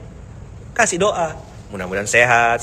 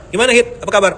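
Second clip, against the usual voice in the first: cheery greeting; 7 semitones higher, 5 dB louder, faster than usual. Retold or imitated. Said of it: "pertama kali datang sini".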